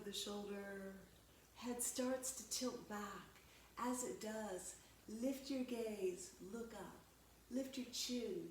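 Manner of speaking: calm, measured yoga-teacher delivery; guided yoga. Real, not acted. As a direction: guide them through breath and stretch, unhurried pauses between cues. Leads stretching exercises.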